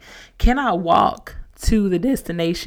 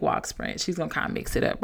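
whispered aside; 2 semitones lower, 7 dB quieter than usual. Real, not acted. Aside about Courtney's mixed pace.

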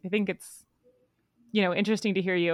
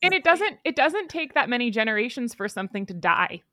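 a real crack in the voice mid-sentence; 4 semitones higher than usual. Real, not acted. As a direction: voice breaks on a line. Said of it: "My voice just cracked".

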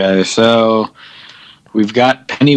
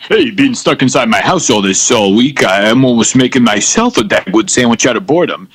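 put-on old borscht belt comic. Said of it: "my impression of a content Rodney Dangerfield".

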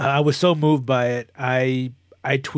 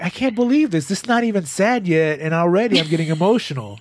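emotional disbelief; 4 semitones higher than usual. Retold or imitated. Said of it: "And I'm like".

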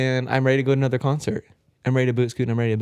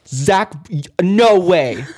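laughing disbelief; 5 semitones higher, 6 dB louder, much slower than usual. Retold or imitated. Friend Leah's excited reaction.

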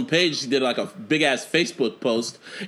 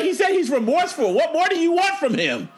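laughing protest; 13 semitones higher than usual. Real, not acted. Mock-incredulous laughing question.

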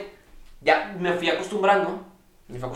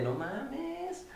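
shocked gasp; 10 semitones higher, 14 dB quieter than usual. Retold or imitated. Retelling seeing the building evacuating.

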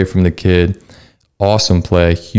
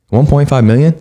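stunned disbelief; 7 semitones higher than usual. Real, not acted. Disbelief at a huge offer.

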